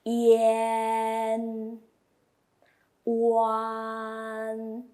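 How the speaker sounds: yan and wan said clearly; teacher modelling sounds; Mandarin finals. Shown as a demonstration. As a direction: model each final crisply. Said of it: "Second line".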